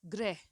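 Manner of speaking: grah, with a clear r cluster and short a; crisp demo of ग्रह; said carefully. Shown as a demonstration. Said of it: "अगर मैं कहना चाह रही हूँ".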